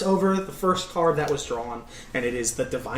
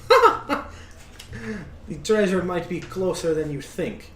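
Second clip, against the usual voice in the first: cackling fortune teller; 3 semitones higher, slower than usual. Acted. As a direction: tease the hint like a witchy seer. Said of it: "kinda cackles and goes".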